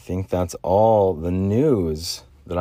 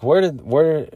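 squeaky cracking voice; voice cracks; 7 semitones higher, 4 dB louder, slower than usual. Real, not acted. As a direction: voice cracking up high at phrase ends. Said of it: "Some freaking voice cracks at the end".

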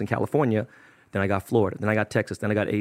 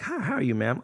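polite greeting; 6 dB quieter than usual. Retold or imitated. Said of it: "you're like".

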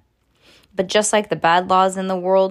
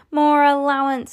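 put-on higher kid's demand; mildly yelled rallying cry; protest yell; 7 semitones higher, 3 dB louder than usual. A narrator's reading. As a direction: call out a protest slogan. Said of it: "Everybody had started yelling".

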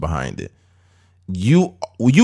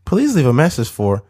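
professional voicemail voice; 2 semitones lower than usual. Retold or imitated. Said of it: "trying to be professional".

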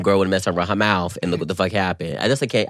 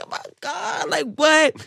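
mock shock; slower than usual. Retelling shocked reaction.

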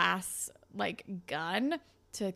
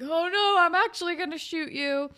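higher, louder imitated gunman; mock threat; 7 semitones higher, 5 dB louder than usual. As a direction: play the gunman's threat for laughs.

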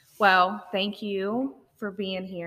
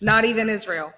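teasing with a laugh; playful jab, laughing as you say it; 5 semitones higher, 8 dB louder than usual. Real, not acted. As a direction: laugh through the joke.

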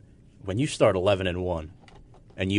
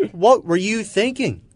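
exasperated outburst; 12 semitones higher, 8 dB louder than usual. Acted.

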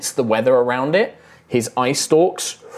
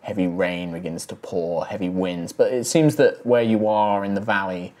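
game master narration. Acted. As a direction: paint the road and storm for the players. Game master sets the scene.

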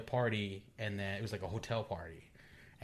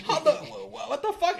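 much higher, stammering laughing shock; lost for words; a retold laughing stammer of shock; 5 dB louder than usual.

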